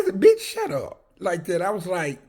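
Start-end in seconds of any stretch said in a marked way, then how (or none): 0.2-1.0 loud retort. Retold or imitated. Retorting to inmate in story.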